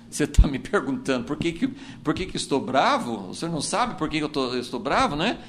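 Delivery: lightly voiced irritated reply; sulky Cain retort. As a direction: answer back like an offended son. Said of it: "Quase que Caim podia falar assim".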